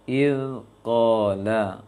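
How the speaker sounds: il qala, the l sound flowing, drawn out slowly; Arabic recitation demo. Shown as a demonstration. Teacher showing the recitation to students, slow and drawn out. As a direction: let the air flow through "il qala", slow. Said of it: "Seharusnya il qalu".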